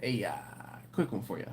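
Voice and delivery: a hint of Ed opening a call; imitating Ed's phone call. Mimicking manager Ed calling about a quick question, hesitant. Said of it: "that's how he talked".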